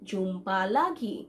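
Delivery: "jumpa lagi" drawn out slowly, syllable by syllable. Shown as a demonstration. Teacher repeats it slowly for learners. ("jumpa lagi" ধীরে, ভেঙে ভেঙে উচ্চারণ)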